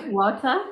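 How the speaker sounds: "Water?" as "waw-tuh", rising; copying her accent. Shown as a demonstration. Asking her friend whether the copy sounds right. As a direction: test her "Water?" with a questioning rise. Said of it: "when I say it like you".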